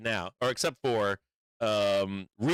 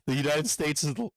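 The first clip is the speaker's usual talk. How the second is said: raised, put-on Trump impression; hammed-up boastful president, pitched up; mock Trump voice; 6 semitones higher than usual. Streamer mocks Trump bragging about oil, hammed-up impression. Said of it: "He's like".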